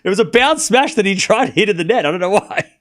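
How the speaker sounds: words broken up by real laughter; laughing while talking. Real, not acted. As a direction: laugh through the line about the miss. Laughing at a lucky smash.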